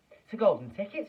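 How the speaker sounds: high, loud thrilled scream. Acted. Shopkeeper screaming at the golden ticket find, loud and high. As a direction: shriek the news to the whole shop. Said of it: "screamed the shopkeeper".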